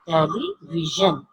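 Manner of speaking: टेलीविजन slow and clear; slow model word. Shown as a demonstration. Teacher has the class repeat टेलीविजन. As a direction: say टेलीविजन slowly. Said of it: "मेरे साथ दोहराएं".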